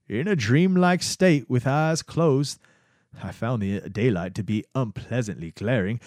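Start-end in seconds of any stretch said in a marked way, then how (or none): 0.1-2.6 lightly put-on slow voice, a little higher; Albert Hofmann voice. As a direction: read the memoir as a dreamy old scientist, slowly. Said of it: "I'm gonna do something different".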